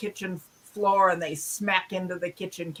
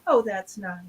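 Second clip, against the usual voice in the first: polite brush-off. Retold or imitated. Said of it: "charm school taught to say".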